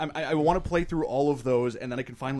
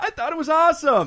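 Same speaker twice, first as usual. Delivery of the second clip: very high, shrill, loud put-on voice; 7 dB louder than usual. Imitating a co-host answering a question: imitating Matt's voice. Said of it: "trying to imitate his voice".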